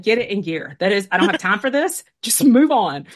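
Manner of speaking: mildly sassy imitation, firmer to the end; a little saucy. Friend imitates a take-charge sister, a little saucy. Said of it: "And she's a little saucy".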